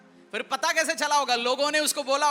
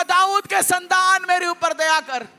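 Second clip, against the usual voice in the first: calling out; 4 semitones higher, 4 dB louder than usual. Acted. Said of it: "मैं पुकार के बोलूंगा".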